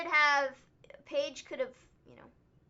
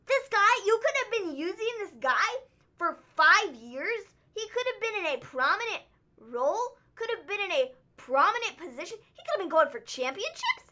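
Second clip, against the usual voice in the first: ordinary talk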